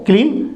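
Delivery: long ee in "क्लीन"; long vowel. Shown as a demonstration. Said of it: "ये हमारा long sound है". ("क्लीन" में लंबी ई)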